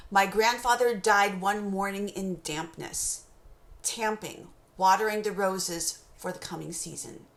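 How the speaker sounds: slow it down, let the internal rhyme land. Shown as a demonstration. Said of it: "I'll read it again".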